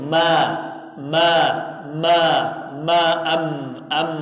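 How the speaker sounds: "ma" and "am" with closed lips; mim from the lips. Shown as a demonstration. Teacher demonstrating the lip letter mim. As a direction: press the lips together on ma. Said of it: "Kalau mim".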